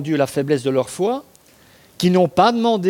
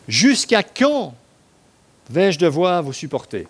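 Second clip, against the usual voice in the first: exasperated; slower than usual. Acted. Jesus exasperated quote.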